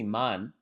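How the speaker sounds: "man" said with a flat American A, as in "can". Retold or imitated. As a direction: say "man" the American way, not Jamaican. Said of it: "the way Americans do".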